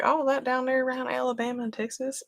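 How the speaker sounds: mock geographic confusion; imitating clueless locals. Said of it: "whenever they's like".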